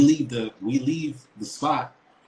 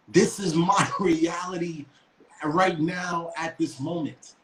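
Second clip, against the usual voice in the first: stunned disbelief; 4 semitones higher, slower than usual. Retold or imitated. Disbelief at being threatened.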